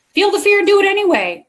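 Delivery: high, sing-out slogan voice, hammed up; exaggerated motivational catchphrase; mock cheerleading. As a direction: parrot the cliche in a high, mocking pitch. Mocking a popular cliche.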